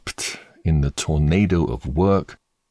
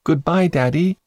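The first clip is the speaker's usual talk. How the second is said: put-on higher, brighter call of a small boy; little boy calling; 11 semitones higher than usual. A narrator's reading. Son calling goodbye to his father as he leaves, childlike call. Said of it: "you turned and waved a hand and called".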